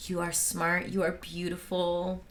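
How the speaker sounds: soft, level self-affirmation; mock mirror affirmations. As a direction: imitate someone earnestly reassuring themselves. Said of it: "he went to the mirror and he was like".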